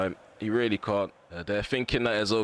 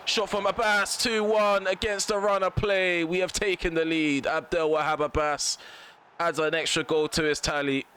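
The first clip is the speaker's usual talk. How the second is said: excited goal call; 7 semitones higher than usual. Real, not acted. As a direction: cheer the winning goal. Goal to take the lead.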